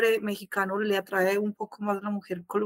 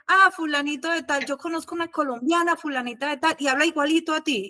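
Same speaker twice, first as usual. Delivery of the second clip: higher-pitched mock eagerness; imitated eager chatter; 4 semitones higher than usual. Mexicans tell her they know another Colombian, imitated eagerness. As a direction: play an eager acquaintance making a connection.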